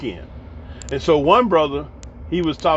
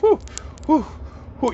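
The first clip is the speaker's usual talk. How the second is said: dramatic whoo; 9 semitones higher, 4 dB quieter, faster than usual. Retold or imitated. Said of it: "they be real dramatic".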